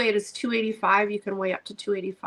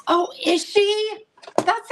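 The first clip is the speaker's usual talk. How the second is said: surprised; 11 semitones higher, 5 dB louder than usual. Real, not acted. Surprised reaction to news about Kathy.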